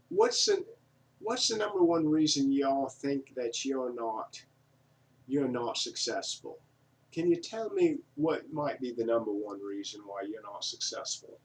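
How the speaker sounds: rough Australian accent impression; attempted Australian accent. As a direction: imitate an Australian speaker, half-heartedly. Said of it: "and he's Australian".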